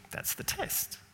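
hushed whisper as the verdict. Real, not acted. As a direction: drop to a whisper to land the point. Quiet punchline in a sermon.

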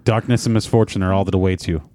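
low, sinister pronouncement. Acted. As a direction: deliver it low, like a villain's omen. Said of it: "saying something much more sinister".

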